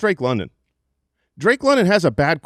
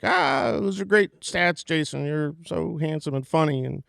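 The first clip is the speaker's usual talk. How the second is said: mock fan gushing. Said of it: "You're saying, like".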